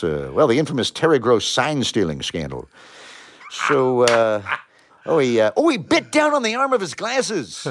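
lively sportscaster play-by-play; play-by-play commentary. Shown as a demonstration. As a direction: call the action like a game. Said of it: "give us a play-by-play".

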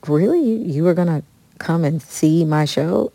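can't believe he wanted to come; amazed disbelief. Retold or imitated. Disbelief that a singer called.

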